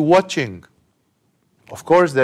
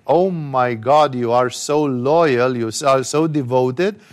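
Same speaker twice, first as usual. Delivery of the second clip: pleased praise; 4 semitones lower than usual. Acted. Pleased master praises servants.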